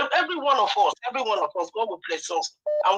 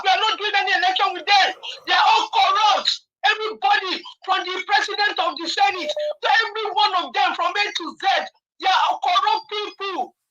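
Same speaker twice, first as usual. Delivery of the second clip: upset shouting; 3 semitones higher than usual. Real, not acted. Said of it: "I'm, I'm really upset".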